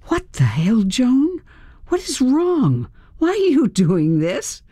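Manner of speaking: high, frightened pleading; terrified questions rising high; panicked. A narrator's reading. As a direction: beg her to explain at gunpoint. Held at gunpoint, panicked.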